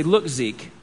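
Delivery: put-on serious talk with your child; a hint of a stern father; quiet stern talk. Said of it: "I pull him aside and I say".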